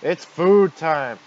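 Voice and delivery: slow, loud, high monster bellow; menacing monster roar. Acted. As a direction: roar it out like a hungry beast. Monster announces attack.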